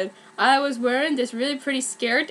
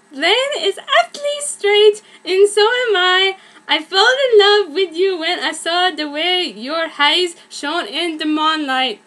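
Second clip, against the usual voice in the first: declaration; 4 semitones higher, 5 dB louder than usual. Acted. Kurt confessing love.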